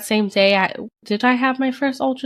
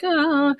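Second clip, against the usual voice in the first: imitated moan; 7 semitones higher than usual. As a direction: let out a small pitiful "ah". Herself miserable on the couch.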